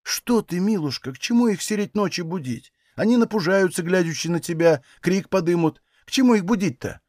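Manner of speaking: calm her without alarm; old woman soothing the dying woman; gentle soothing. Acted. Mother-in-law soothes dying woman.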